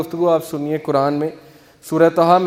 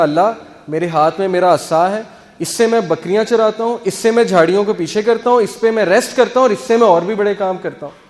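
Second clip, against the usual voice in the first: excited Musa; 2 semitones higher than usual. Retold or imitated. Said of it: "بڑا excited ہو گئے".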